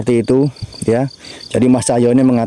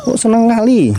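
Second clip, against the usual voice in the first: teasing exclaim; 10 semitones higher than usual. Real, not acted. Menggoda teman soal kuburan.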